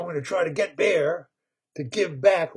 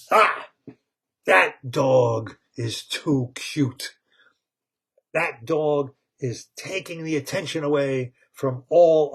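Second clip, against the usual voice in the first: put-on indignant boss baby; 4 dB louder than usual. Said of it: "and he says".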